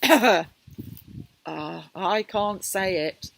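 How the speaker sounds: loud giggling protest. Acted. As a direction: giggle through the words. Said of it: "giggled the rhinoceros".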